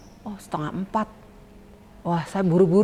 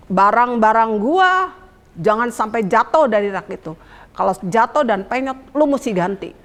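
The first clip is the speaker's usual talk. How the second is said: mock-stern hostess, louder at the start; stern warning, imitated; 3 dB louder than usual. Hostess warns lodger about her belongings, mock stern. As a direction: drag out the opening, then lay down the rule. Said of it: "dia wanti-wanti begini".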